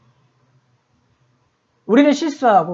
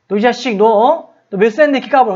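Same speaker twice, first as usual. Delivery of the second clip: retold telling-off, raised and louder; acted cross outburst, pitched up; angry scolding; 5 semitones higher, 4 dB louder than usual. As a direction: scold a cheeky kid indignantly. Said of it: "막 이렇게 화를 내".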